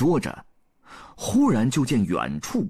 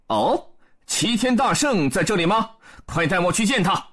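surprised, eager; 8 semitones higher than usual. A narrator's reading. Erlang surprised by the news.

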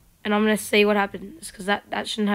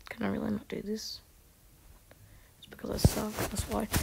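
hushed, defeated whisper to herself; whispered self-talk; 12 dB quieter than usual. Real, not acted. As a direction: mutter it under your breath, giving up.

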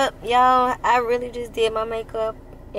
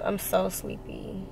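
slow, softer drowsy murmur; sleepy; 6 dB quieter, slower than usual. Real, not acted. Tired vlogger home late, softer and slower, sleepy. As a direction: let it drag out, half asleep.

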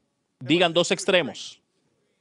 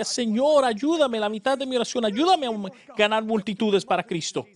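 higher, earnest pleading to the Lord; pleading retold prayer; 4 semitones higher than usual. Young believer praying to God, higher and pleading. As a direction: beg God for power and crowds. Retelling his repeated prayer.

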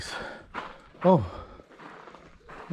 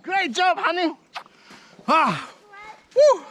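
excited praise; 9 semitones higher, slower than usual. Real, not acted. Praising child after a climb.

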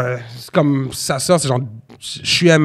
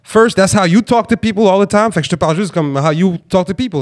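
imagined telling off; 2 semitones higher than usual. Pretend. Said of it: "je lui dirais juste".

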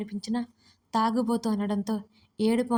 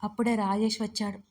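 usual speaking voice

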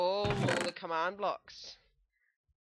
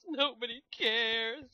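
slow, put-on sulky repeat of nobody cares; mock sulky voice; 4 semitones higher, 4 dB louder, slower than usual. Shown as a demonstration. Host echoes the viewers in a mock sulky voice. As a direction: drag it out like a mopey echo.

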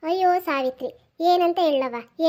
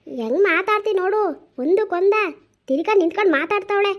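scolding grandmother; 3 semitones higher, 4 dB louder than usual. Acted.

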